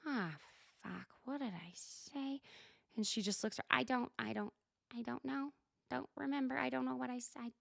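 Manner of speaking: imitating someone caught out; trailing-off denial under the breath; flustered mumble.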